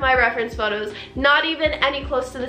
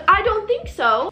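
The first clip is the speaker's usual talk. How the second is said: high, pointed retort; indignant refusal; 7 semitones higher than usual. Retold or imitated. Client rejecting a forty-five dollar discount, indignant. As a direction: push back with raised pitch. Retold quarrel over the price.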